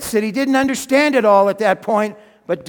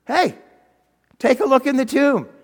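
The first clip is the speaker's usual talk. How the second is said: eager urging; 4 semitones higher, 4 dB louder than usual. Acted. Angel urges Mary to look.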